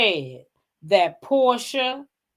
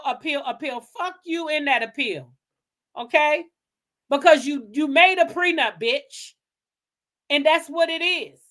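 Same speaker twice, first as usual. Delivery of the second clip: angry higher-pitched telling-off; heated rant; 5 semitones higher than usual. Real, not acted. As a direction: tear into him.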